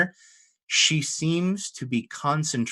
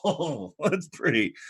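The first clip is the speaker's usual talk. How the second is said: higher, softened mock awe; dazzled wonder; 5 semitones higher than usual. Game master plays Moroccan admiring the sun, mock wonder. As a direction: coo with hammed-up wonder.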